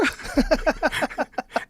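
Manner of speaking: high giggling laugh. Real, not acted. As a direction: crack up at your own punchline. Laughing at own punchline.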